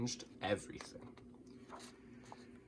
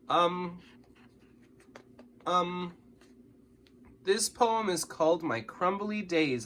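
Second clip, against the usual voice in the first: voice cracking; 6 semitones higher, slower than usual. A narrator's reading. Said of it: "my voice cracking".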